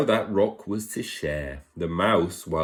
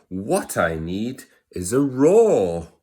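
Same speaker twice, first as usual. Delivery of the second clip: high little mouse, louder and determined; 3 semitones higher, 6 dB louder than usual. Acted. Mouse boldly announcing his plan, high and loud. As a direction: puff up a tiny voice. Mouse declares he needs roar.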